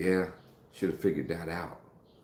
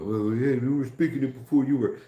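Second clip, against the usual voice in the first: higher-pitched imitation of a British friend; British comeback, pitched up and hammed-up; mock British accent; 7 semitones higher, 4 dB louder than usual. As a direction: tease back in a put-on British accent. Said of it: "that British English".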